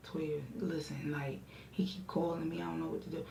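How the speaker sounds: hushed urgent whisper; secretive whisper to a friend. Retold or imitated. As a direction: whisper it so the caller can't hear. Whispering to friend about caller.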